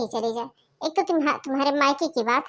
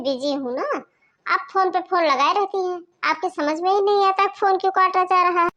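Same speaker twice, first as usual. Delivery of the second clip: louder, exasperated telling-off; annoyed scolding; 4 semitones higher, 4 dB louder than usual. Acted. Sister-in-law snapping at the caller over repeated phone calls, louder annoyed scold. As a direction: lecture her for calling again and again. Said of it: "आप इतने गुस्से में क्यों हैं?".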